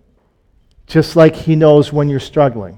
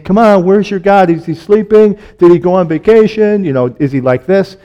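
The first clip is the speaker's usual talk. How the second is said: mocking taunt; 4 semitones higher than usual. Prophet mocking the prophets of Baal, jeering. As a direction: taunt them like a bully. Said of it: "he's mocking them".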